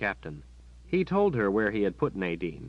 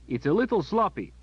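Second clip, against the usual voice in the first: louder call across the hall; calling after; 11 semitones higher, 5 dB louder than usual. Acted. Captain calling after the departing boy, louder. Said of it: "the captain called after the boy".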